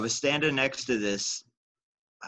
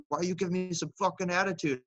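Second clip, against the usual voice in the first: angry trucker; 7 semitones higher than usual. Retold or imitated.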